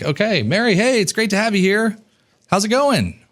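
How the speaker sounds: host welcoming a joining guest with high energy; energetic welcome. Shown as a demonstration. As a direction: pull her into the room with energy. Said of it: "People will match your energy".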